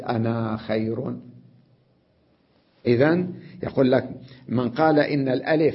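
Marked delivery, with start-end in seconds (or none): 0.0-1.2 "أنا" said short with no long a, slowly; short ana. Shown as a demonstration. Teacher pointing out to students the short "أنا". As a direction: clip the a of "أنا" short, at a slow pace. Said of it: "لاحظوا، أنا خير، ما قلت".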